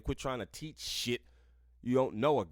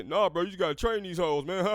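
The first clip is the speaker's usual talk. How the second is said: bro voice; 5 semitones higher, 3 dB louder than usual. Retold or imitated. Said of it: "they heard you say".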